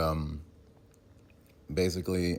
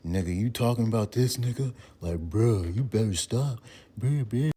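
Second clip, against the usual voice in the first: acted face reaction; 6 semitones higher, 4 dB louder than usual. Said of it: "the, the face like".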